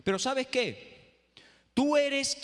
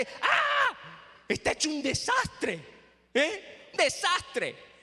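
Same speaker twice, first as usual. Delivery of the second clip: panicked shriek; 7 semitones higher, much slower than usual. Retold or imitated. Wife panics at messy house.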